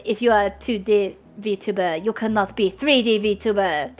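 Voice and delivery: a light mock French accent. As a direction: toss it off in a hint of French. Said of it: "I don't know why I did a French accent".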